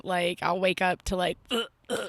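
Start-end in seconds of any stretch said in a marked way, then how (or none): 1.5-2.1 mimicked hacking cat noise; imitated cat hacking. Cat owner waking up to a sick cat, imitated hacking. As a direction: act out a sick cat's short hacks. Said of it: "the other's coughing".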